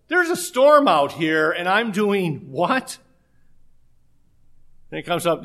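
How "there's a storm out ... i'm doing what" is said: mock alarm. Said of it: "started looking around going".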